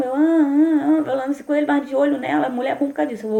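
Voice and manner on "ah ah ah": flustered stammer. Retold or imitated. Flustered while watching the girl.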